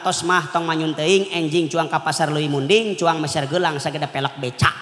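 soothing husband. Retold or imitated. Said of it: "cek bapana".

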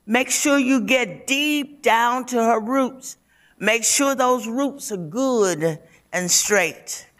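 a bossy grandmother egging the comb on; grandmother's voice. Acted. Grandmother chiming in during hair combing.

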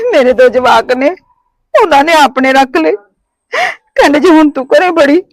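tearful, voice catching; crying. Acted. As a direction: speak through tears. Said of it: "ਰੋਵੋ ਨਾ". (ਰੋਂਦੇ ਹੋਏ)

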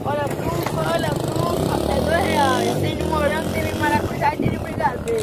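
put-on kid's vendor call. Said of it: "anunciando, né?".

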